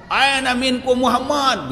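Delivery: rough call. Retold or imitated. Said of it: "suara teh gogorowok, bedas pisan".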